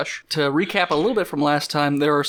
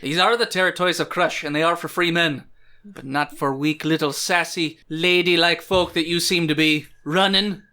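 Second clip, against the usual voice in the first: hostile axe man. Acted. Game master answers as axe man.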